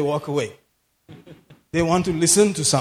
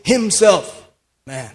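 "himself" set apart before "man"; emphasis on himself; 2 semitones higher, slower than usual. Shown as a demonstration. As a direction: stress "himself", pause, then "man". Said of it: "I like that emphasis".

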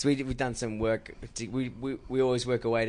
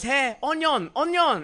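high, called out from afar; calling out; 11 semitones higher, slower than usual. Retold or imitated. Crew on set calling Sebastian by nickname, called out high. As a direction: call across the set, higher. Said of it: "everyone goes".

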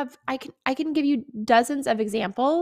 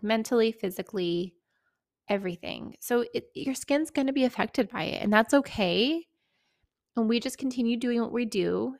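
gentle reassurance. Retold or imitated. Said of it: "kind of gently".

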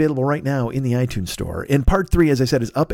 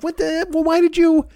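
mock indignant; 5 semitones higher than usual. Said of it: "which I'm like".

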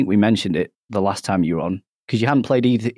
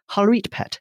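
higher-pitched put-on Geordie greeting; mock Geordie; 10 semitones higher than usual. Host welcoming back the Geordie co-host, mock Geordie. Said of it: "we are plus a Geordie one".

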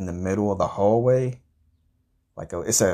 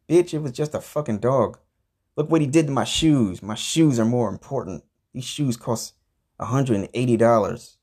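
retold heated comeback, pitch raised at first; indignant retort; 3 semitones higher than usual. Man defending his shoes to his girlfriend, indignant retelling. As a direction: argue back, mock-outraged over the shoes.

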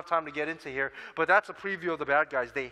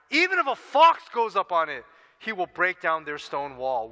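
trash talk; 3 dB louder than usual. Acted. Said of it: "the trash talk".

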